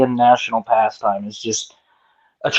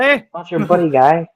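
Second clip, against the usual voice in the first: South Park Canadian; 4 semitones higher than usual. Retold or imitated. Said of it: "South Park ... make fun of Canadians".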